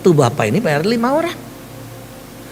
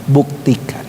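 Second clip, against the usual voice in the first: low, measured divine pronouncement; solemn prophecy; 5 semitones lower than usual. Retold or imitated. Preacher quoting God's word for the coming year, solemn. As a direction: declare it low, as God's promise.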